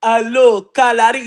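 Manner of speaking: brief put-on African accent. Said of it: "you know the African accent".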